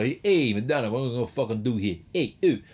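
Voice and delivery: hammed-up cocky producer; brash rock producer. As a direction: bark it like a swaggering rock bloke. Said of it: "You don't imagine".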